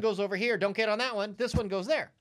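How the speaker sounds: knocking the mic while talking; tapping the mic. Real, not acted. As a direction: thumps on the microphone while explaining. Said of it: "Quit hitting the mic".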